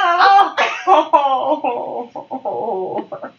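long laugh with some pain; real laughing groan; pained laughter. Real, not acted. Friend reacting to teasing, laughing in pain. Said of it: "Sam is laughing while also being in pain".

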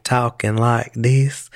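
slow imitated Southern American accent; Southern drawl. Imitating a woman heard on NPR, slow Southern drawl. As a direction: stretch it out in a mock Southern drawl. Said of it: "the Southern drawl is a French accent".

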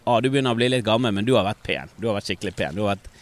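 a hint of a worn-out party woman's voice; lightly voiced raspy lady; quick then dropping, lightly put on; imitating her voice. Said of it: "for hun snakker sånn som dette her nesten".

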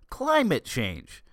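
scoffing at the phrase; incredulous. Acted. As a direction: echo it back like it's absurd. Repeating the phrase in disbelief.

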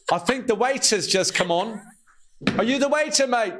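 high-pitched jeering put-on; mock heckling. Acting out scornful red carpet photographers.

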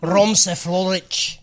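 put-on slow Scottish accent, "Ramsey Lalich" with rolled R. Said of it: "I turned fucking, like, Scottish".

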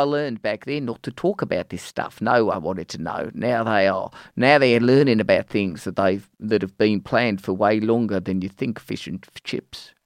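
lightly imitated Kiwi accent; New Zealand accent. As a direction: read it with a touch of New Zealand. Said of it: "that's how they talk".

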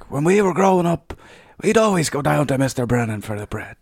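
put-on, lilting ad character; old bread-ad voice. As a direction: mimic a reminiscing voice from an old advert. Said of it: "it's the Brennan's ad".

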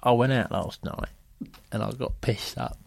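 soft, halting confession; Lovejoy. Acted. Actor owning up to last night, soft and halting. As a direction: confess it quietly, bit by bit. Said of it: "He says".

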